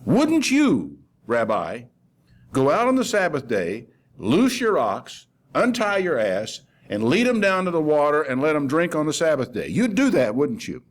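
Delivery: retold rebuke, lifted in pitch; acted challenge. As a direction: put it to an opponent, phrase by phrase. Acts out Jesus challenging the ruler.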